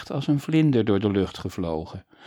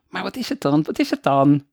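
higher, louder impatient asking; eager cry; 5 semitones higher, 6 dB louder than usual. Acted. Boy impatiently presses his father again, higher and louder. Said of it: "riep Frederik opnieuw".

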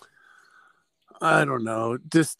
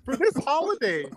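ad announcer; 11 semitones higher, 3 dB louder than usual. Pretend. Mock ad pitch continues.

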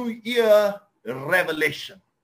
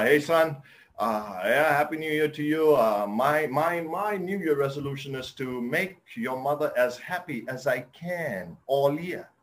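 father answering his son's call, lightly lower; fatherly dad; 4 semitones lower than usual. Retold or imitated. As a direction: settle into a steady old father. Dad voiced on phone.

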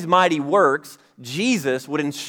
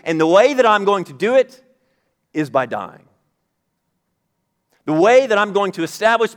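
higher and louder, preaching in Jesus' voice; preacher voicing Jesus to his disciples, raised and emphatic; 4 semitones higher, 4 dB louder than usual. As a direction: proclaim it as Jesus declaring his mission. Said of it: "So Jesus says".

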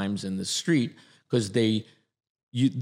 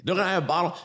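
put-on high, meek childish ask; little voice; 7 semitones higher, much faster than usual. A recruit mocking his old meek voice. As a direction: ask sweetly in a tiny voice. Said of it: "continuing the meek little voice".

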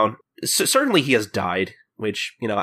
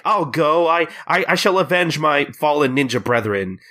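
lightly voiced solemn avenger, raised pitch; mock vow of vengeance, pitched up; Kagura; 5 semitones higher than usual. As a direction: declare it like a little hero. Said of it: "Kagura is like".

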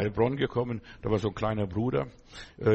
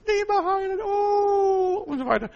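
very high, loud whining prayer; imitating the sisters who pray in a tearful voice; whiny pious sister; 4 dB louder, slower than usual. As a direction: wail it up high like a weepy churchgoer. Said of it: "So weinerlich".

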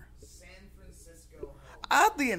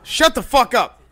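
loud outburst of disbelief; shouting; 6 semitones higher, 10 dB louder than usual. Real, not acted. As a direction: blurt it out at full volume. Reacting to shocking news.

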